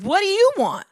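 put-on rough old man's bark; gruff what do you want. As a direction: snap it like a suspicious old man. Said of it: "He said".

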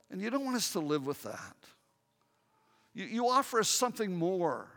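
earnest spoken prayer to God; heartfelt pastor's prayer with music underneath; closing prayer. Acted. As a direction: pray it over the congregation.

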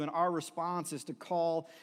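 ordinary talk, nothing marked

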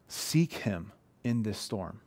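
soft slow urging. Acted. Pastor urging congregation softly.

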